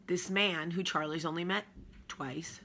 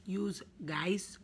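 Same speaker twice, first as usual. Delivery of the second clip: whispered yous guys; whispering; 4 semitones higher than usual. Pretend. Whispered retake.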